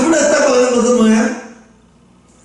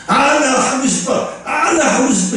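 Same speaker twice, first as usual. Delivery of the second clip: lightly voiced, half-laughing "나 하고 싶어", higher; casual mock wish; 4 semitones higher than usual. Shown as a demonstration. Preacher mocking a shallow wish to lead prayer, half-laughing. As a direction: toss off the wish with a chuckle, not meaning it. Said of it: "이게 아니에요".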